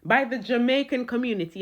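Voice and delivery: lightly voiced judge's pronouncement; a hint of stern courtroom theatre; sentencing judge. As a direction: announce the punishment with mock gravity. Mock judge passing a sentence.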